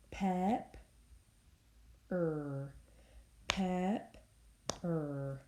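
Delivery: "Pep" then "Er", one beat per syllable; teacher showing the chin-drop syllable count. Shown as a demonstration. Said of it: "let's do a chin drop with pepper".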